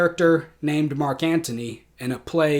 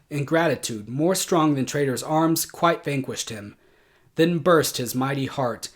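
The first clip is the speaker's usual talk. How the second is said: Antony's oration, building and falling with feeling; dramatic Shakespeare recitation. Acted. Teacher performs Antony's speech for the class, theatrical recitation. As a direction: declaim the verse like a stage actor.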